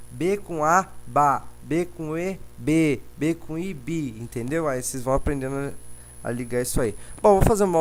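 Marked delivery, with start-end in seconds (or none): 0.1-4.2 lightly voiced schoolteacher, drawn out and higher; a hint of primary-school syllable drill; teacher spelling syllables. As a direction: sound out syllables for little pupils, slowly. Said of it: "o professor explica pra você lá".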